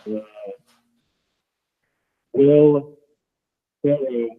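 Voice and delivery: muffled bad connection. Real, not acted. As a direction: sound muffled and far off. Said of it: "you sound muffled real bad".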